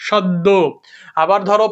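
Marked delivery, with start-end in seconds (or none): 0.1-0.5 সদ্য as "shod-do", final o; doubled d. Shown as a demonstration. Teacher joining the syllables, সদ্য as "shod-do". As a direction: sound the d twice in সদ্য. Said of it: "দো".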